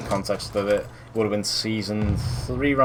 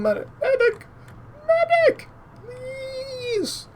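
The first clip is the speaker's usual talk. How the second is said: man down shout; much slower than usual. Real, not acted. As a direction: yell for a medic, desperate. Downed in game, calling for medic.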